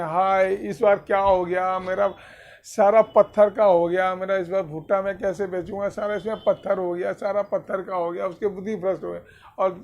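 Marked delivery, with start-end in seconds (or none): 0.0-8.3 loud, rushing lament of a storyteller's farmer; lightly acted wail of despair, raised in volume at first; mock wailing. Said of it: "माथा सर पटक पटक के रोने".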